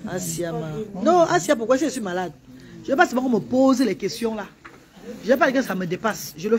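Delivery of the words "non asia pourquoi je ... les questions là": loud, high upset protest; upset outburst. Real, not acted. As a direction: push back hard at the question. Upset reply to viewer. (protestation vive, aiguë et forte)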